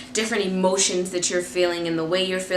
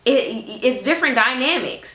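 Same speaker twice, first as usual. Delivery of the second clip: put-on light friendly girl talk; 4 semitones higher than usual. Shown as a demonstration. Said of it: "Other people are like".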